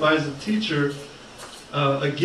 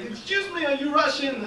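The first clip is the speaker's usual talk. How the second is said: inquiring stranger; 8 semitones higher than usual. Retold or imitated. Some guy coming up to the comedian, inquiring stranger. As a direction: pipe up as a curious passer-by. Stranger approaches him, acted.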